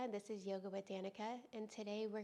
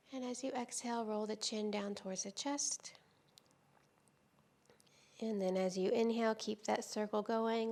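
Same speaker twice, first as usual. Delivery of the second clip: calm, unhurried yoga teacher with long pauses; guided yoga meditation; 5 dB louder than usual. Real, not acted. Teacher easing students into restorative yoga, calm guided-meditation delivery. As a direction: guide them gently through breath and stretch, leaving space between phrases.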